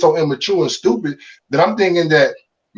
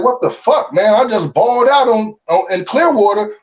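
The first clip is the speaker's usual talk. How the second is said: higher, indignant complaint at the demotion; frustrated outburst; 6 semitones higher than usual. Retold or imitated. Player griping to the team about being sent down, indignant and higher. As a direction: vent like you just got sent down unfairly. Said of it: "I'm like".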